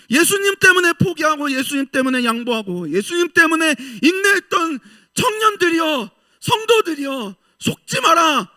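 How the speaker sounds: high, loud, tearful proclamation; impassioned cry. Retold or imitated. God's kingdom calling to weary young believers, loud and tearful. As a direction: cry out with a breaking voice to spur the faithful. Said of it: "하나님의 나라가 우리에게 말해주는 거야".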